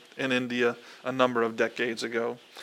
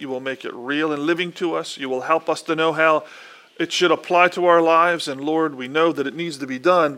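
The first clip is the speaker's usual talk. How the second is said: prayer. Acted. Pastor praying over the Bible reading, earnest prayer voice. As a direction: lead the congregation in prayer.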